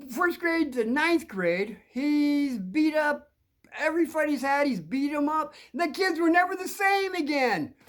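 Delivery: high, drawn-out tale of dread; ominous legend. Retold or imitated. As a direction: imitate a friend hamming up a scary legend, very slowly at first. Friend recounts bully's dreadful legend.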